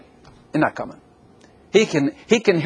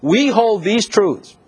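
slow solemn quote; 5 semitones higher, much slower than usual. Shown as a demonstration. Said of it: "Here's what he says".

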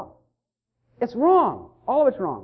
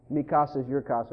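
mock Spanish phrase; 8 semitones lower, 6 dB quieter than usual. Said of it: "someone will say".

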